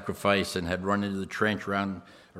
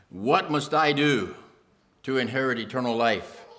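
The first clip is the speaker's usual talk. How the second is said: earnest question; 5 semitones higher, 6 dB louder than usual. Acted. Rich man asks Jesus earnestly.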